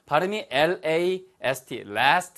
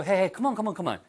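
calming someone; 5 semitones higher than usual. Acted. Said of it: "사람한테도요".

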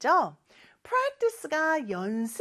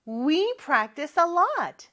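higher, projected "We practice a lot"; big voice; 4 semitones higher, much slower than usual. Shown as a demonstration. Teacher leading pupils in we practice a lot, big voice. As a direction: say it out brightly for a class to repeat. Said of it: "큰 목소리로 해볼까요".

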